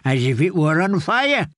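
a hint of a gentle old caretaker; kindly old man. Grey man reports her fever.

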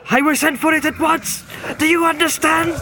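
high, loud, toneless shriek; shrill cry. Acted. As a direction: shriek it as if possessed. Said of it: "he cried in a shrill and toneless voice".

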